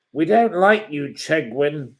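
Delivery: taunting jeer. Real, not acted. Taunting the troll.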